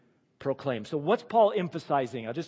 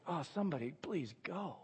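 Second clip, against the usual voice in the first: mock desperate plea; 2 semitones higher, 9 dB quieter than usual.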